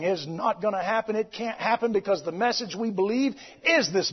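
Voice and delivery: firm, steady sermon delivery; preaching. Acted. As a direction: press the point home to the church. Preaching to congregation.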